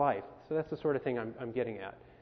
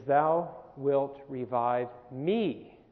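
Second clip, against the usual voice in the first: slow, with the weight landing on "me" at the end; stress on me; much slower than usual. Shown as a demonstration. Teacher showing the camp theme with stress on "me". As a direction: lean into "me", slowly and deliberately. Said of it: "you pointed out the emphasis on me".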